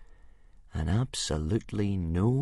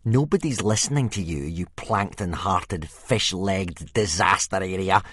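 sneering; 4 dB louder than usual. Acted. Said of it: "sneered Snotlout".

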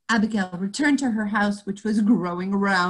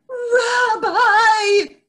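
wheezing call; 13 semitones higher, 8 dB louder than usual. Acted. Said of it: "Abigail wheezed".

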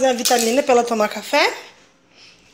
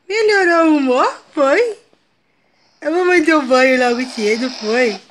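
voz de mimo; 4 dB louder, slower than usual. Real, not acted. Mãe brinca com a filha emburrada.

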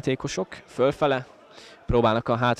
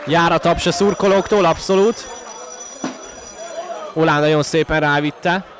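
rising, shouting play-by-play, much higher; excited sports commentary; 9 semitones higher, 4 dB louder than usual. Real, not acted. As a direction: yell the chance as it unfolds. Live commentary of a near-goal chance.

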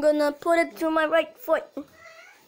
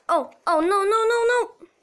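panicked no-no-no; 6 semitones higher, faster than usual. Real, not acted. Game suddenly goes wrong.

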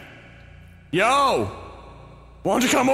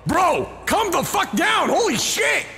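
panicked yell; 5 semitones higher than usual. Real, not acted. Panic at chasing monster.

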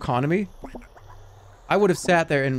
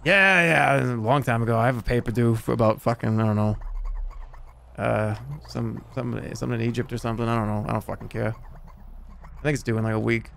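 mock Boston slacker; 2 semitones lower than usual. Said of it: "like a forty-year-old guy from Boston".

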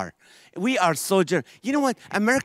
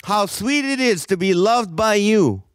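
lightly mocked preacher prayer, a bit higher; praying pastor; 4 semitones higher than usual. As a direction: ham up a pastor's fervent prayer. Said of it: "He was like".

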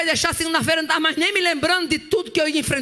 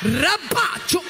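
speaking in tongues; 4 semitones higher, much slower than usual. Acted. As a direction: call it out like a tongue of fire.

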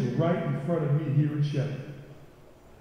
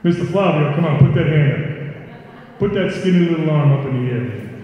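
calling out; 6 dB louder than usual. Real, not acted. Calling out a student, teasing.

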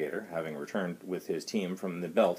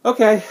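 heavy sigh; 15 dB louder than usual. A narrator's reading. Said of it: "the medical officer sighed heavily".

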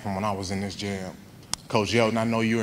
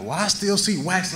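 mock inspection; 9 semitones higher than usual. Miss Sue inspects the car.

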